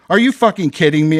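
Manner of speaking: angry bark, pace up. Acted. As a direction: snap it out at the supervisor. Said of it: "I barked".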